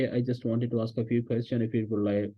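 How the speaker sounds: slow, careful polite request; teacher modelling a polite request, slowly; slow request demo. Shown as a demonstration. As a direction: ask it slowly so they can repeat. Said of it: "फिर आपने कहना है कि".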